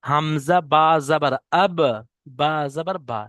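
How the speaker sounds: slow recitation of the letters and vowel marks; slow spelling drill. Shown as a demonstration. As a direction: spell হামজা বা জাবার আব slowly, letter by letter. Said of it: "দেখেন".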